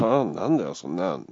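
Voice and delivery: 少し強めに、突っぱねるように; 「はあ」で食ってかかる強気な返し; defiant. Retold or imitated. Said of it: "強気で". (罵声を浴びせる客に強気で言い返す)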